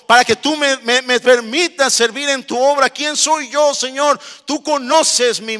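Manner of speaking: preacher acting out a weeping, humbled believer; acted tearful prayer. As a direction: cry out to God, high and impassioned. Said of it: "Llorando, diciendo".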